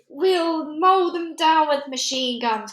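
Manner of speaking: high, loud, slow army cry; rally the troops with it. A narrator's reading. Army chief crying out to shoot the giants, high and loud. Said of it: "cried the head of the army".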